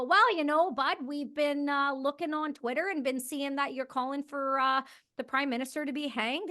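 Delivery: folksy Canadian officer easing into bad news; Canadian accent. Agent at the door explains, in a Canadian accent. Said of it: "I'm gonna try to do the Canadian accent".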